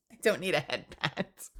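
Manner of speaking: softened, laughing objection; amused repeat. Real, not acted. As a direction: say it again lightly, through amusement.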